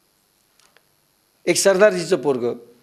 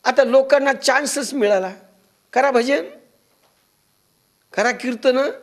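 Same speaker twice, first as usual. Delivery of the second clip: jeering villagers, pitched up high; mock taunting; 6 semitones higher than usual. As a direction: needle him in a higher, sing-out voice. Villagers taunting the saint after theft.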